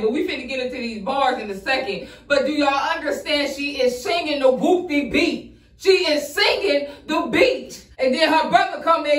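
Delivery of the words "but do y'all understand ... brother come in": amazed laughing. Real, not acted. Amazed she sings the beat.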